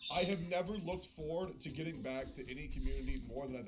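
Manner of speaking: sincere thanks. Real, not acted.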